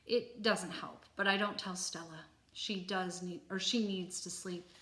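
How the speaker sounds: measured, expressive read-aloud; story narration. Acted. Reader telling the gorilla's sleepless night, expressive story narration. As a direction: read the chapter out clearly with lively emphasis.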